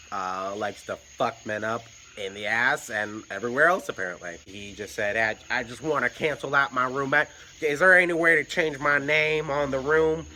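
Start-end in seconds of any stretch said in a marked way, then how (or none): 5.5-10.3 a hint of a southern drawl; mild southern drawl, slightly higher. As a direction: lightly imitate a southern meth head. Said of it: "he's got this, like, southern drawl".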